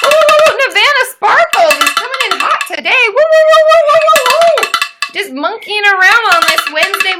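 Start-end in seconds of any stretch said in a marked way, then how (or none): 0.0-3.0 high, loud, flustered excitement; excited squeals. Real, not acted. Streamer flustered by a rush of donations, squealing excitedly. Thanking a big donor. 3.1-4.7 very loud high playful monkey hoots. Pretend. Celebrating a donor on stream with loud monkey hoots. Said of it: "his monkey noises".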